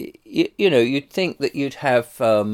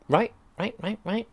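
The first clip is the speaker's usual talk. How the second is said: mock agreement; 11 semitones higher, 7 dB quieter than usual. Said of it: "mocking agent's fake agreement".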